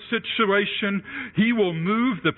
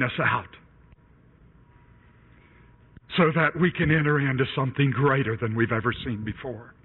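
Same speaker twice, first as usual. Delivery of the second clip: closing prayer; 6 semitones lower than usual. Acted. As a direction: pray to the Father, hushed and earnest. Preacher closes in prayer.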